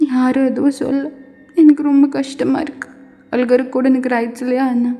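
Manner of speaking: put-on high, upset young woman; tearful. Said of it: "தேம்பி தேம்பி அழுதுட்டு இருக்கீங்க". (அழுகையோடு உயர்ந்த குரலில்)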